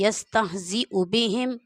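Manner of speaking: smooth, flowing, at a natural pace; fluent reading. Shown as a demonstration. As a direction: read it easily after practice. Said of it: "फिर आपकी रवानगी कुछ इस तरह से हो जाएगी".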